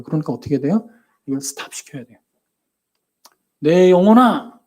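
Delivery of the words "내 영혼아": loud, drawn-out call. Shown as a demonstration. Preacher shows how to call one's own soul, calling out. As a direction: call out slowly and firmly to your soul. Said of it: "불러야 돼요".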